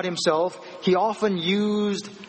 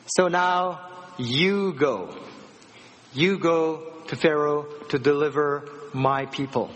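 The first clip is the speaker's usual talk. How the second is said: God's command. Retold or imitated. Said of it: "he was shocked when God said".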